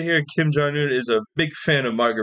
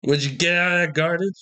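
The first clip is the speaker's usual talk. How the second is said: quick Irish phrase; 4 semitones higher, faster than usual. Shown as a demonstration. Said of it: "Fun phrase used in conversation".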